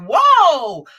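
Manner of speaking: loud, high drawn-out whoa; big startled exclamation. Retold or imitated. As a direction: pull back as if shocked by her cussing. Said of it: "I was like".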